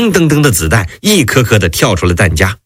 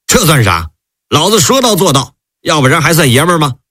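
defiant, pitched higher and quickening; stiff-necked bluster, a touch hammed; stubborn defiance; 4 semitones higher than usual. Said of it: "李云龙梗着脖子说".

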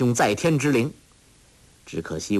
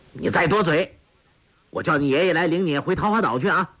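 fast, higher scolding threat; stern rebuke; 6 semitones higher, faster than usual. A narrator's reading. Yang Kang threatening Sha Gu to silence her, fast stern scolding. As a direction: snap at her to shut up. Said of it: "杨康喝道".

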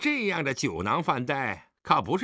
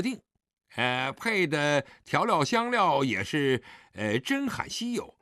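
smug, provoking son in a higher voice; provocative; 8 semitones higher than usual. Acted. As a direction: needle your father with showy hesitation. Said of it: "狄景辉挑衅地说".

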